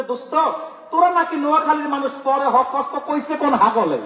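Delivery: lightly voiced teasing Dhaka man with a laugh; mocking educated Dhaka man. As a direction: poke fun at him, half laughing. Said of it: "ঢাকার শিক্ষিত লোক নোয়াখালীর লোককে বলতেছে".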